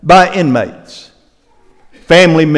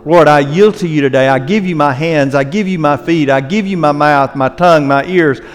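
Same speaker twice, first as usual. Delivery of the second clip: closing prayer. Real, not acted. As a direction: pray sincerely over the congregation. Leads closing prayer over music.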